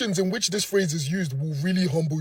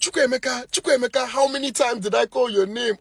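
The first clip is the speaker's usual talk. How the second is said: raised, higher calling voice; mom calling out; 5 semitones higher, 3 dB louder than usual. Acted. Mom summoning her son, raised exasperated calling. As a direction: call him in like an impatient mother.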